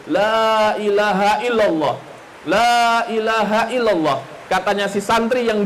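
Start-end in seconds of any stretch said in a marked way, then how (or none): 0.0-4.2 slow, drawn-out mock parrot chant; parrot reciting. Preacher shows the congregation the parrot's slow recital. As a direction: slowly chant it as the parrot would. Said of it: "Bisa bilang begitu".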